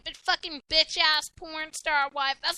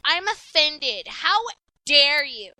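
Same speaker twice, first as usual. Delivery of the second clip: mock offended; 2 semitones lower, 5 dB louder, slower than usual. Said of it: "I was like".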